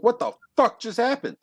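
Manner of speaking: high-pitched, baffled exclamation; confused outburst. Acted. Contestant suddenly teleported back in line, baffled. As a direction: blurt it in total bewilderment. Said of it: "He's confused as fuck".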